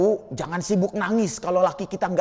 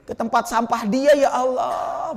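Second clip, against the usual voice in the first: indignant rant; 2 semitones higher than usual. Retold or imitated. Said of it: "Sabarin dikit".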